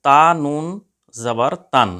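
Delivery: loud "তা নুন জবর তান", the নুন running into তান; recitation drill. Shown as a demonstration. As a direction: chant it clearly for the class. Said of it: "দুটো কিন্তু উচ্চারণের দিক দিয়ে একই". (জোরে স্পষ্ট আবৃত্তি)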